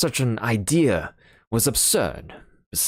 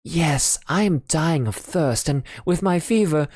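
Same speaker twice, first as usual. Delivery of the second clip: higher, feverish voice of a sick man begging; dying friend voice; 8 semitones higher than usual. Acted. Sick friend begging Sholmes for water, feeble and higher. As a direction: plead weakly like a man with fever.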